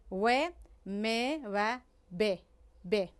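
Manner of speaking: isolated "و، م، ب" without teeth or tongue; slowly separated labial "و", "م", "ب"; lips-only sounds. Shown as a demonstration. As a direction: form a rounded w for "و", then closed-lip "م" and "ب".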